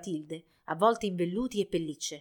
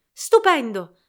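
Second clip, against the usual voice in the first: loud, higher delighted praise; smiling declaration; 4 semitones higher, 11 dB louder, slower than usual. A narrator's reading. Princess applauding the dancer, delighted declaration. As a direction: exclaim it with a smile. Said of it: "dichiarò sorridendo".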